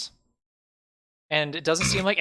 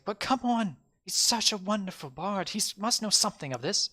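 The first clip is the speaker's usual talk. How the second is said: much higher hopeful pleading; a naive guy hoping for help; 9 semitones higher than usual. Acted. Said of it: "And it's like".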